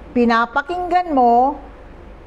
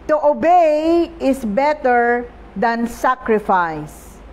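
"To obey is better than sacrifice" read slowly and solemnly, leaning on "obey"; scripture reading; slower than usual. Acted. Preacher reading the key verse to the congregation, slow and solemn. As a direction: let the verse land slowly, weight on "obey".

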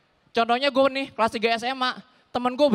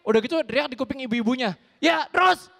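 hammed-up parking attendant yelling =188; parking attendant shout; 4 semitones higher than usual. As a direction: yell directions at a car.

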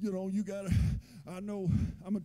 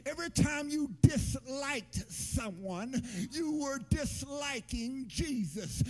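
fervent preaching, slowing at the end; preacher slowing to a crucified climax. Real, not acted.

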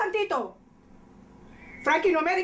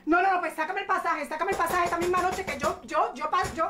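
nervous panic. Acted. Madre nerviosa pide el pasaje.

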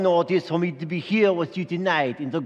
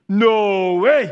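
louder, higher disbelieving no way; mock Zachariah; 4 semitones higher, 6 dB louder than usual. Zachariah doubting the angel, louder disbelief. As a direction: scoff in disbelief. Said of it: "he said".

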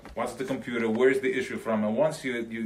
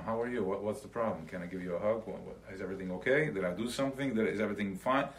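caring chesed voice; 3 semitones lower, 6 dB quieter, faster than usual. Pretend. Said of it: "maybe I can apply more chesed to him".

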